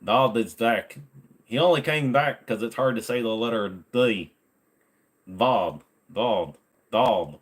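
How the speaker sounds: words without moving lips; bad ventriloquism, lips still; ventriloquist voice. Shown as a demonstration. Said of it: "my practicing ventriloquism".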